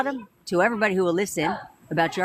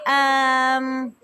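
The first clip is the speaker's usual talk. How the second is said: put-on unsure girlfriend; 5 semitones higher than usual. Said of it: "And now you're like".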